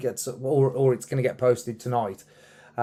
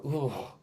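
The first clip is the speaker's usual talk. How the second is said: disgusted groan; 8 dB quieter than usual. Retold or imitated. Singer hearing their own recording played back, quietly disgusted groan. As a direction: groan as if put off by the sound. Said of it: "often you will go".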